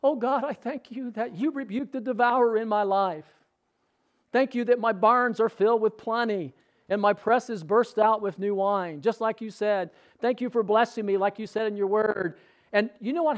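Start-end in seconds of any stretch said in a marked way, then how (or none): 0.0-11.2 timid, slightly raised praying voice; very weak voice. Retold or imitated. Preacher re-enacting his first hesitant thanks to God, weak voice. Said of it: "a very weak voice". 11.2-12.4 tentative prayer, no force behind it; very weak voice. Retold or imitated. Preacher retelling his early prayer to God, weak voice. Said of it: "a very weak voice".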